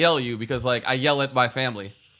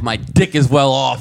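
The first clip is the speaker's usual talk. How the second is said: shout; 7 dB louder, slower than usual. Acted. Bragging joke, shouted.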